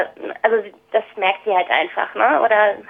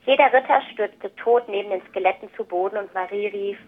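picture-book reading with lightly acted dialogue; story narration. A narrator's reading. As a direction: read aloud to children, clearly phrased with pauses. Reads the picture book aloud.

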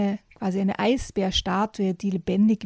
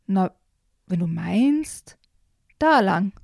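sighing; 3 dB louder, slower than usual. Acted. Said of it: "seufzte der Habicht".

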